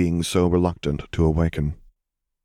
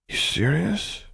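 much higher, drowsy disbelief; sleepy child; 11 semitones higher, slower than usual. A narrator's reading. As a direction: ask it still half asleep. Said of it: "sleep still clinging to his voice".

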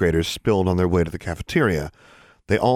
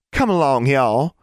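put-on haughty girl; 7 semitones higher, 5 dB louder than usual. A narrator's reading. Innocence leads friends haughtily.

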